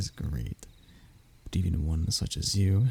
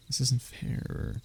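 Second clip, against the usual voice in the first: whispered complaint; 6 dB quieter, slower than usual. Acted. Captive sulking at the dragon.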